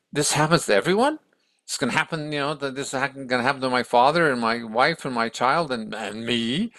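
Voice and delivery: mock dismay, rising into a question; shocked disbelief. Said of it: "totally shocked".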